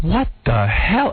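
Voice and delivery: slow, drawn-out "what the hell?"; baffled outrage. Retold or imitated. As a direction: drag it out in disbelief. Retold annoyed reaction at photographer.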